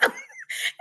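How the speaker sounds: brief high-pitched giggle; real laugh breaking into the story. Real, not acted. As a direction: burst out in a short, high laugh. Laughs while retelling husband's worry.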